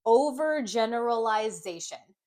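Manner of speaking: "Overgeneralization" blended smoothly at near normal pace; blending the syllables. Shown as a demonstration. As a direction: join the parts into one word. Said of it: "and then blend it".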